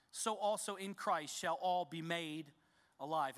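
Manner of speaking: slow, measured scripture reading. Acted. Pastor reading verses to the congregation, measured and solemn. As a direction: read each phrase with weight.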